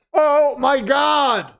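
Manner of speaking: excited shout. Real, not acted. New champion announced, shouts.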